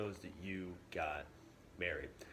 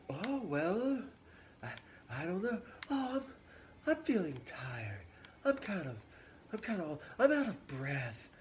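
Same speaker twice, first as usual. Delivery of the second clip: higher, mock-weary stalling old nurse; teasing nurse; 8 semitones higher than usual. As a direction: drag it out, pretend to be tired. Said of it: "the nurse is kind of on to Juliet's game".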